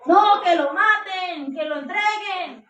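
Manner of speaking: stretched, mock-insistent crowd calls; acted crowd outcry. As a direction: cry it slowly like a whole crowd. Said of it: "¿Usted se imagina un pueblo entero?".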